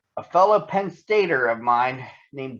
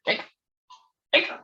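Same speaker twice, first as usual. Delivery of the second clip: hiccup sound. Acted. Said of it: "he heard".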